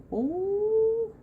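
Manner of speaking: high, delighted oh; surprised gasp. Real, not acted. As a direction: caught off guard by the glow. Gasps at the lighting.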